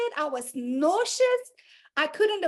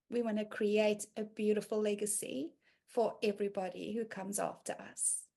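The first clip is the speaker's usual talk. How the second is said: softer, low confiding voice; soft intimate sharing; 7 semitones lower, 6 dB quieter than usual. Acted. Speaker confiding to the women gathered, softly. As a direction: draw them in quietly, like a secret.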